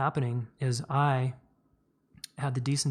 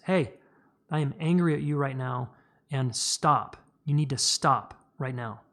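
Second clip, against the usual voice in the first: firm stern voice. Shown as a demonstration. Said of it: "to raise our voice and get firm".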